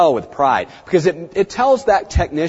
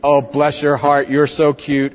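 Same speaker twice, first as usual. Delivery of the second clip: mock gushing receptionist; slower than usual. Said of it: "it's not like we all go".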